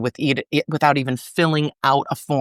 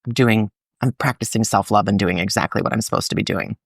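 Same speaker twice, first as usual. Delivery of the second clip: sigh, then settle lower into calm relief; acted self-soothing, lower after a sigh; comforted relief; 6 semitones lower than usual. Talking oneself out of worry, comforted and relieved. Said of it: "but then comfort of".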